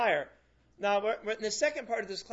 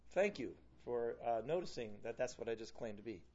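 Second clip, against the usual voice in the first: calm acknowledgement; 8 semitones lower, 6 dB quieter than usual. Acted. Acts Jesus calmly accepting the charge.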